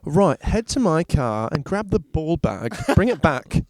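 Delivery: slow, lightly voiced coach giving orders; a hint of a bossy coach, drawn out; impression of the soccer coach. Friend imitates their old soccer coach sending a player to the car, slow. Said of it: "That's our coach".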